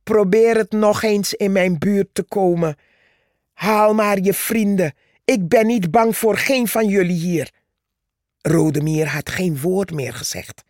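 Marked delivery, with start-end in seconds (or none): 0.0-7.5 defiant boast. Acted. Purperhart challenges the ant.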